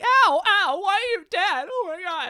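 high, mock pained whimper of a kid being hit; mock whiny cry. Brother mocking Keith's fake cries from the belt, high mock whine. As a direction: whine like a hurt kid, hammed up. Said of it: "he wouldn't be like".

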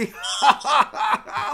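high, loud burst of laughter; high-pitched cackling laugh. Real, not acted. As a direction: crack up at someone. Cracking up at stranger.

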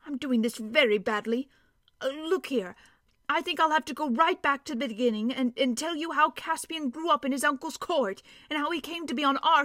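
a lightly voiced dwarf, proud of his news; gruff gravelly dwarf voice. Dwarf decides to tell tale.

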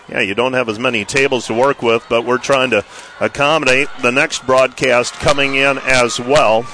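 winded after rushing down to court; talking while catching breath. Real, not acted. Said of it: "I sound like I'm out of breath".

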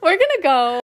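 strained, worn-out croaky voice; tired end-of-episode hoarse voice. Real, not acted. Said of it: "My voice gets like this".

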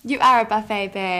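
loud sassy hype; big diva compliment; campy drag queen. Acted. Hyping co-host as a buffet.

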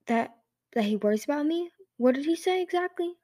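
eager, rising hopeful question. Acted. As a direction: hang on every word, hopeful. Peril eager for news of Clay.

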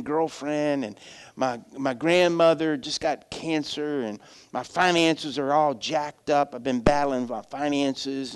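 lightly acted hushed confession; confiding troubles. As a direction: confide hesitantly in a pastor. Man confides his troubles to pastor.

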